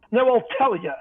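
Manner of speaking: gray-toothed grumble. Acted. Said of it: "he says with his teeth sounding gray".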